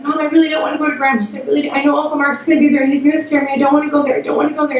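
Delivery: fast, anxious begging, lightly acted; pleading child. Daughter begging mom to skip Grandma's, rushed mock pleading. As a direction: imitate a kid rattling off excuses.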